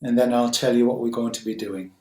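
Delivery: calm, unhurried guiding voice with long pauses; guided meditation. Acted. Teacher guiding listeners to settle on the breath, guided meditation. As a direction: gently settle listeners, leaving space between phrases.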